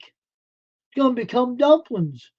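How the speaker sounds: high, slow sing-song lament; drawn-out high mock wail over the rooster. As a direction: stretch it out high like a mock dirge.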